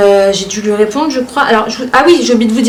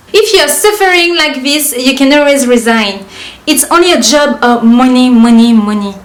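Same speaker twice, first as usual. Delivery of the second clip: début plus haut et lent, ton condescendant; récite-le comme une leçon méprisante; commentaire en anglais moqueur. Retold or imitated. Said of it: "de la manière dont moi je les lis dans ma tête". (commentaire anglais lu avec condescendance)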